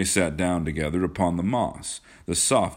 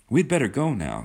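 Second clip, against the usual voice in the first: put-on light, higher girlish sweetness; sweet; 7 semitones higher, 3 dB louder than usual. A narrator's reading. Kismine suggests leaving to John, sweetly. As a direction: say it sweetly, pitched up. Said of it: "said Kismine sweetly".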